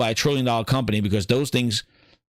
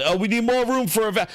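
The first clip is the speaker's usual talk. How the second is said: higher, sing-song fake corporate voice; mocking Microsoft's smug reasoning; mock excuse; 9 semitones higher than usual. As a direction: parody a company making an excuse.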